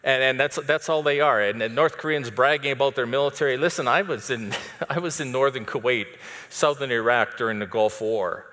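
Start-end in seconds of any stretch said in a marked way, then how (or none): none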